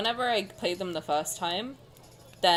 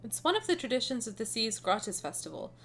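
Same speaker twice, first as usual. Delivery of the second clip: story narration; 5 dB quieter than usual. A narrator's reading. Reads game story aloud.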